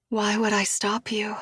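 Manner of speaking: teasing unvoiced whisper. Julia whispers a dare to Josh.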